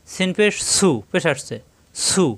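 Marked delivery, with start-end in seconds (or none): 2.0-2.3 "সু" with a clear u vowel; rounded u sound. Shown as a demonstration. Teacher showing learners the u sound, rounded "সু". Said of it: "উ, উর মতো হবে".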